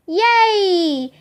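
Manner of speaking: high, drawn-out cheer; gleeful yell. A narrator's reading. Annie cheering from overhead, gleeful yell. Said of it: "Annie yelled from overhead".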